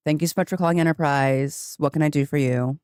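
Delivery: customer service script without the perky lift; everyday voice, no eagerness to help; not very thankful. Shown as a demonstration. Car rental agent answering a call, not very thankful. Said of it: "sound like I'm not very thankful that you called Enterprise".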